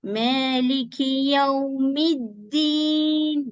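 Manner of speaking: Maliki Yawmiddin recited very slowly; slow recitation. Shown as a demonstration. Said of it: "The mim you have to pronounce with the dal".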